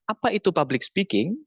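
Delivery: "Apa itu public speaking?" asked with a rising question tune; question intonation. Shown as a demonstration. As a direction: ask it as a real question, voice lifting at the end. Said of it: "Itu kan nada intonasi bertanya". (intonasi bertanya, nada naik di akhir)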